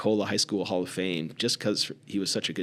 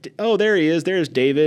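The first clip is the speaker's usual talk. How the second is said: high, loud, happy exclamation; mock old man thrilled to see a visitor; old man greeting a visitor with delight; imitating a delighted greeting; 9 semitones higher, 9 dB louder than usual. The speaker greeting him as David.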